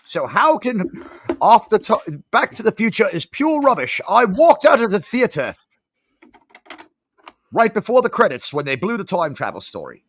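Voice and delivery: a put-on New Zealand accent, rising as the rant heats; mock-indignant New Zealand accent ranting about movies. Kiwi-accented friend ranting to Steve about time travel, New Zealand accent. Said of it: "trying to do my New Zealand accent".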